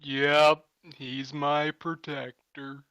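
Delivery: slow hermit crab voice; giant hermit crab. Acted. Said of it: "the giant hermit crab is like".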